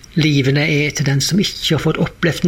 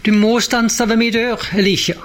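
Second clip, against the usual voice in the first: pleading call, pitched higher; woman's cry; 5 semitones higher than usual. Retold or imitated. Widow calling to Elisha at his door, pleading. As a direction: cry out to the prophet for help.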